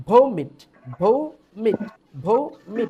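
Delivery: ভৌমিট said slowly with the stress on ভৌ; ভৌমিট with a strong first syllable and a light মিট; pronunciation demo. Shown as a demonstration. Teacher showing his class how to say ভৌমিট. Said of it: "শব্দটা উচ্চারণ করতে গেলে ইংলিশে এরকম আসবে".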